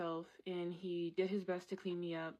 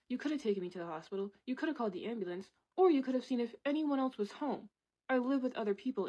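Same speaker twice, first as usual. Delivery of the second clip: faster, then louder and higher; building real anger; 5 semitones higher, 4 dB louder, faster than usual. Real, not acted. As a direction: accuse him, rising to a shout. Confronting the absent coworker.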